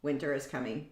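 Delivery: mock-dramatic "Winter is coming"; ominous warning. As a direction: intone it like a grim prophecy. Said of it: "I'm just like".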